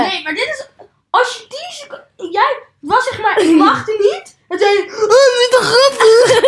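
high voice cracking with laughter; talking through giggles you can't hold; stifled giggles. Real, not acted. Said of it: "je hebt gelachen".

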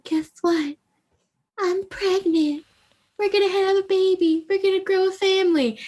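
high, hammed-up gushing announcement; mock giddy heroine. Heroine telling the hero she's pregnant, high and giddy. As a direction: squeal the big news. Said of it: "she's like".

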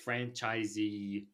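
slow, exaggeratedly stretched delivery; drawn-out announcer talk. Host announcing a movie toss-up, slow and drawn out. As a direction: linger on each word, teasing the choice. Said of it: "I'm talking like this".

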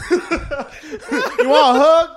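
high, loud, very slow caricature; unthreatening redneck. Retold or imitated. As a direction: offer it as a harmless goofy redneck. Voicing the unthreatening redneck friend.

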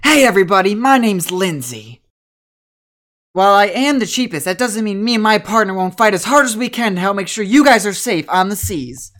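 pep her up, eager to be hired; spunky young trainer. Acted. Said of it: "She goes".

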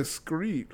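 "screet" with a k after the s; stepdad's pronunciation. Retold or imitated. Stepson repeating his stepdad's word for street, k pronunciation. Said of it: "he say screet".

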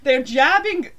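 loud, slow retold protest; indignant protest. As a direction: insist loudly, dragging it out. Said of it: "And I'm like".

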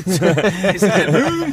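laughing hard through the words. Real, not acted. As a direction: crack up mid-sentence. Risa a carcajadas. (hablando entre carcajadas)

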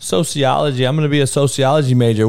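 mocking clueless student. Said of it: "they were".

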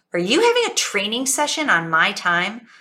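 mock snotty customer's challenge. Woman in line challenging the store worker, mock snotty. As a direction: imitate a put-out lady, lightly snotty. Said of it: "snotty voice to the two of them".

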